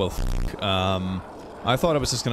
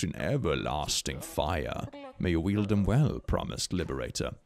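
slow, low, grave pronouncement; solemn ancient figure; 4 semitones lower, 4 dB quieter, slower than usual. Acted. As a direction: intone it softly like an old oracle. Voices a game character's speech.

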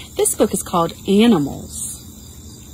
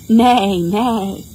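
playful spoken neighs; falling neighs, punched on the first; horse neigh; 5 dB louder than usual. Shown as a demonstration. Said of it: "like a horse".

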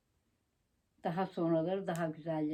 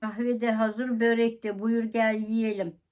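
cilveli davetkâr kadın; 3 semitones higher, 5 dB louder, slower than usual. Pretend. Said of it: "bir sapık karı var".

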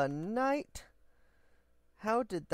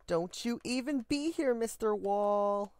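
mock scolding; 5 semitones higher, 3 dB louder than usual. Scolding the wall playfully.

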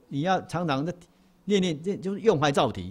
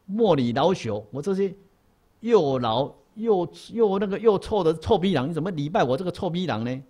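put-on old monk's humble refusal; 3 semitones higher, 3 dB louder than usual. Old monk tells the bowing Dongshan, lightly voiced protest. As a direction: stretch out the self-mocking words. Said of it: "这位和尚说：".

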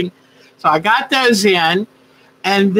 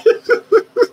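playful mock yell; 10 semitones higher, slower than usual. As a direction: shout the greeting like all-caps chat. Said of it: "Sonia was yelling at us".

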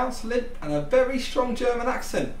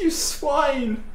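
angry insult; 3 semitones higher than usual. Acted. Spy unmasked, insults captor.

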